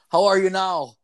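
a hint of a cheerful old-fashioned farmer greeting; Mennonite driver voice.

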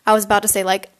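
reading a fan story aloud; story narration. Acted. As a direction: narrate the chapter with voiced quotes. Reads Wattpad story aloud.

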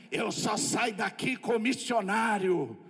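slow, eerie possessed woman; a hint of an otherworldly spirit, slowed. Possessed woman refusing to leave, slow and eerie. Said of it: "ela, com aquele olho fechado, só falou assim".

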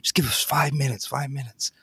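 soft, fast, sweet-talking student voice; innocent school kid. Retold or imitated. Filmmaker asking a stranger for five minutes, soft innocent-kid voice. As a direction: play the harmless student asking a favor. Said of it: "an innocent school kid going".

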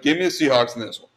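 a hammed-up analyst delivery; mock sports analyst. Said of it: "he sounds like that's exactly".

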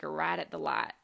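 light Southern country vowels; country accent. Retold or imitated. Tired speaker giving directions, lightly Southern country accent. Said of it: "the more kind of country sounding".

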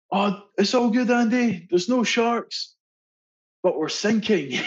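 the skipper's casual call with bad news tacked on. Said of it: "skipper shouts down".

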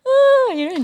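hammed-up courtroom cry, leaping high; mock wailing. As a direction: fake a family member's high sob. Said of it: "step cry all, step like the family member".

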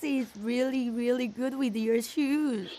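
fawning mimicry that slows down; mocking sibling's voice. Sister aping her brother flattering Dad, mocking mimicry. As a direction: imitate a suck-up, drawing out the praise. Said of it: "Your voice is like".

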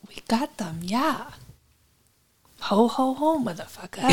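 put-on best German accent. Player bluffs as Carl on the radio, German accent. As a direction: answer quietly in a mock German accent. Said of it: "I'll do my best German".

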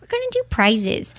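whispered teasingly; playful whisper. Shown as a demonstration. Host teasing co-host about prizes, playful whisper. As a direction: whisper it like a secret. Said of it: "I just feel like doing that".

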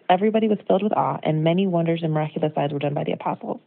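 quick, then measured Bible reading; scripture reading. Acted. Reading Acts aloud to the church, a touch of awe. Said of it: "Listen to this".

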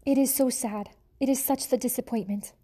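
put-on French accent, wallowing in self-pity; theatrical French lament. French mother mouse lamenting to her husband, mock-tragic French accent. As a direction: moan it like a French diva. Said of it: "She was a French mouse".

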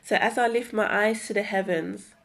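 heartfelt spoken word poem; poem reading. Acted. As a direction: read it like a personal poem. Reads her creative piece.

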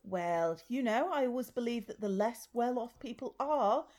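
posh snob voice. Acted. Sketch character, posh snob.

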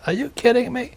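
a mock-outraged son who can't believe it; incredulous retort. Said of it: "I said".

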